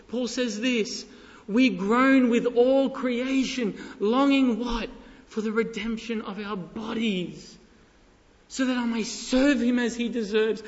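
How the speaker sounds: fervent preaching. Acted. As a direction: preach it with earnest longing. Preaches with raised fervor.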